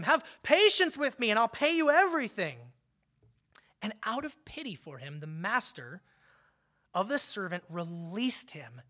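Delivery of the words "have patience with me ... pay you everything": a touch of pleading, higher and louder; understated desperate plea; imploring. Acted. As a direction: mildly beg the master for time. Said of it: "imploring him".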